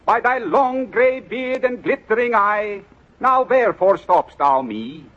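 a pompous reading of the stanza; correct intonation. Acted. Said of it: "read that poem over again with the correct intonation".

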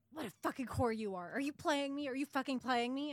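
hammed-up furious accusation, half-shouted. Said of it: "he's, like, furious".

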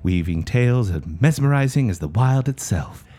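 lightly voiced nature documentary narrator; Attenborough narration. The speaker narrates the show intro like Attenborough, lightly voiced. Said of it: "narrated by him, Attenborough-style".

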